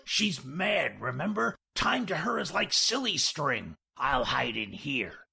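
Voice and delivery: lightly voiced, brisk conspirator; scheming George. George reassuring Jack before hiding in the washroom, lightly animated. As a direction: brush off the worry with lively pitch.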